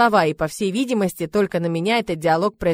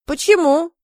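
surprised; 9 semitones higher, 4 dB louder than usual. A narrator's reading. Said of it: "удивилась".

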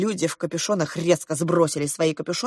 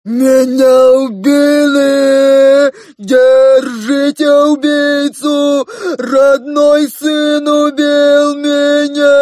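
loud, slow hammed-up wail; fat voice; 7 semitones higher, 9 dB louder, much slower than usual. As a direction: play dead, howling slowly. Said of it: "закричал толстым голосом". (громкий медленный толстый голос)

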